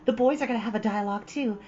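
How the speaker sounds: put-on high girlish voice, earnest; a bright young girl making her case; eager Anne. A narrator's reading. Anne arguing for the concert to Marilla.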